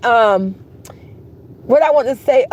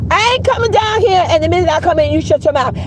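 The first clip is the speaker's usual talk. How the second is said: scolding; 4 semitones higher than usual. Retold or imitated. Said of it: "say trouble to him".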